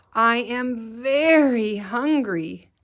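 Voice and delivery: slow, drawn-out hungry plea; teacher voicing a hungry brother; hungry whine. Shown as a demonstration. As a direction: whine it like a starving boy. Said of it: "important to use your voice".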